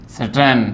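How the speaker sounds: सर्टन ending on a reduced टन; no ए sound in सर्टन; correct short vowel. Shown as a demonstration. Teacher repeats the corrected form, correct short vowel. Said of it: "टे नहीं टे".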